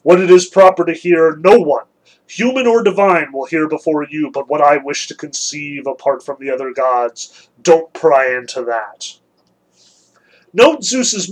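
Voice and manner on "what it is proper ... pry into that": a hint of a lofty king of gods; stern Zeus. Zeus rebuking his prying wife, stern and weighty. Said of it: "father of gods and men answered".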